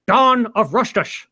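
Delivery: put-on trailer title in a hammy Asian accent; stereotypical Asian accent. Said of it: "said with a completely stereotypical Asian bad accent".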